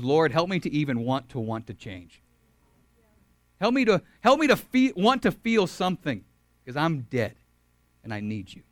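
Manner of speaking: humble prayer. Shown as a demonstration. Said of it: "pray the prayer that I prayed".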